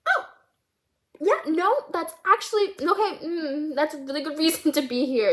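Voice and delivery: high, awkward stop-start stammer; nervous counselor. Retold or imitated. Jittery counselor reacting to student's bad news, flustered and high. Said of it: "he's also really nervous".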